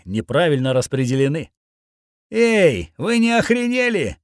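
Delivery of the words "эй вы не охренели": high, indignant call-out; indignant shout. A narrator's reading. Hero challenging three guys attacking his friend, indignant shout. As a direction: call out sharply, pitch jumping up. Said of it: "выкрикнул я".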